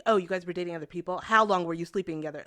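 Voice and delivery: quick-fire questions at ordinary pitch; imitated nosy questioning. Woman voicing people who get the wrong idea, rapid questioning. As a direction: rattle off questions like a suspicious onlooker.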